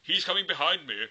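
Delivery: high, loud little goat pleading. Acted. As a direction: squeak it out like a worried goat. Goat warns troll in story.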